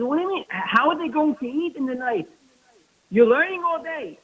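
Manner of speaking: indignant demand. Retold or imitated. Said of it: "He got so mad".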